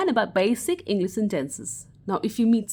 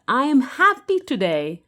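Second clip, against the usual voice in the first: happy; 3 semitones higher, 5 dB louder than usual. Shown as a demonstration. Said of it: "you want to express your emotions".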